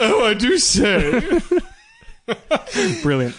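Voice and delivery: posh voice. Pretend. Mocking posh cashmere remark.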